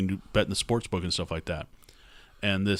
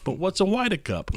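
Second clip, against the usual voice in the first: put-on old lady voice; 10 semitones higher than usual. Mocking lady's question.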